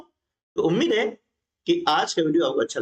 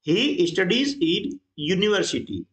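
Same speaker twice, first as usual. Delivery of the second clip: each word read out slowly; slow, deliberate classroom reading; slow dictation; 2 semitones higher, much slower than usual. Shown as a demonstration. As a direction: spell the sentence out slowly for students. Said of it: "इसका उच्चारण किससे हो रहा है?".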